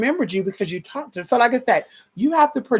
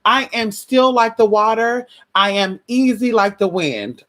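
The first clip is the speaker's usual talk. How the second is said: calm mantra; 3 semitones higher, slower than usual. Shown as a demonstration. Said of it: "I say that all the time".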